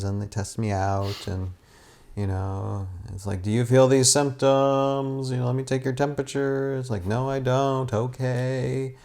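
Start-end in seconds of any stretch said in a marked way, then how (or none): 3.4-9.0 sing-song recital of a routine exchange; drawn-out, imitated question-and-answer on one held note; mock screening routine. Patient imitating the hospital staff's questions, mock rote recital.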